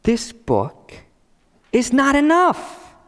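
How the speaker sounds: mock shout rising in pitch at the end; imitated shout, climbing to a high finish. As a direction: start level, then yell the last words high. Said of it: "And they shout".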